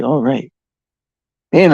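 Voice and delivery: ordinary talk, nothing marked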